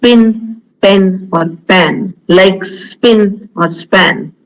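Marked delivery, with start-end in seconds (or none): 0.0-2.2 PIN, PEN, PAN with no puff after the p, slowly; plain dry p in "pin", "pen", "pan"; Indian unaspirated p. Shown as a demonstration. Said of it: "most of the Indians you will see".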